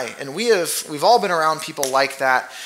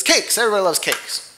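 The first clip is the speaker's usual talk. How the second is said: Donkey; 5 semitones higher than usual. Retold or imitated. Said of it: "So he says".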